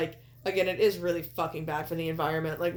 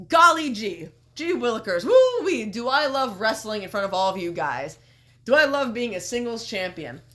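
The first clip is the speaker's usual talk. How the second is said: Kenny. Retold or imitated. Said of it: "and Kenny's going".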